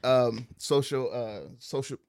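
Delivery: stumbling over words; can't get the word out; tongue-tied. Real, not acted. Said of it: "I can't even speak".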